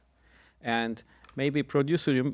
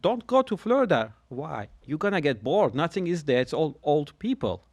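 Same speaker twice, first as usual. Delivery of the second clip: high, loud mock warning from friends; 4 semitones higher, 5 dB louder than usual. Friends begging him not to move, loud mock warning. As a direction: play the worried friends, raising the voice. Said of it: "they all said".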